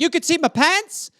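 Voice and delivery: put-on high, shocked child voice; high mock alarm; alarmed kid. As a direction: panic like a kid exposed. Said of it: "I'd be like".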